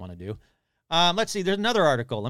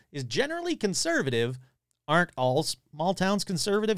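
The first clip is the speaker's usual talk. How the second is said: lively read-aloud with quotes lightly acted; article read aloud; 3 semitones higher than usual. Podcaster reading a monster report to listeners, animated read-aloud. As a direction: read out an old news story with relish.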